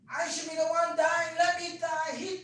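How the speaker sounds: high, loud anguished wailing; retold hysterical shouting. Grieving girl shouting in the ward, hysterical wail. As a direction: cry out in guilt and despair.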